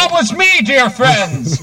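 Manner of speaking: slow, self-announcing orator; pompous voice of a self-declared leader; grand self-styled president. Acted. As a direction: proclaim your titles to dear friends. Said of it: "the voice of the Indian you just heard".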